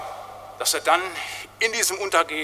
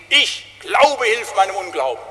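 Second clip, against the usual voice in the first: shouted plea; 3 semitones higher, 3 dB louder, slower than usual. Retold or imitated. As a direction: cry it out like a man at his end. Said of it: "der hat's rausgeschrien". (laut herausgeschriene Bitte)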